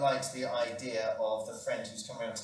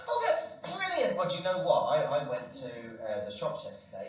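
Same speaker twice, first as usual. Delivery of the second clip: chirpy friend; 5 dB louder than usual. Acted. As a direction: gush like a cheery friend.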